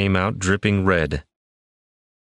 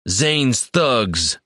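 yelled back; 5 semitones higher than usual. A narrator's reading. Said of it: "Zell yelled back".

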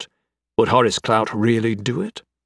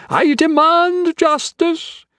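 very high, stretched-out outcry; slow, high-pitched scream of outrage; screamed demand; 4 dB louder, much slower than usual. A narrator's reading. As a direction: cry out for justice, hugely theatrical. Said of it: "he screamed, and then".

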